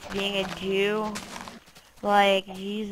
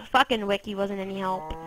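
ordinary talk, nothing marked

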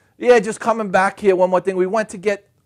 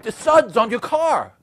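higher, slowed-down call; repeated holler; 5 semitones higher, slower than usual. Acted. Italian guy repeating to puzzled driver, slightly toned-down holler. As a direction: spell it out slowly to someone who missed it. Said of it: "He's like".

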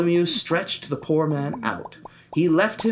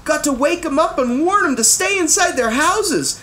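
urgent; 9 semitones higher than usual. A narrator's reading. Bartholomew urging warning.

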